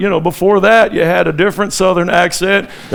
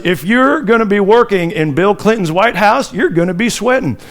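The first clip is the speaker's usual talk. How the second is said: Clinton impression. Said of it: "We did a Bill Clinton impression".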